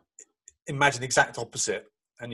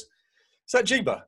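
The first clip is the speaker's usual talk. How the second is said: put-on higher, slow childlike question; curious little boy; 9 semitones higher, much slower than usual. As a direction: play the small son, wide-eyed and slow. Son peeking at photos.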